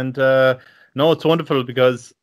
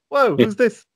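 higher-pitched mock astonishment; acted surprise; 9 semitones higher than usual. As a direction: act out being taken aback by a newcomer. Retelling his first startled reaction.

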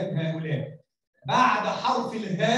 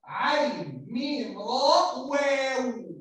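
slow letter-by-letter spelling; slower than usual. Shown as a demonstration. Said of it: "كلمة عمرو".

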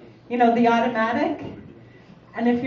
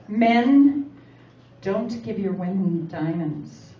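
commercial voice; 6 semitones lower than usual. Retold or imitated. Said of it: "it actually says".

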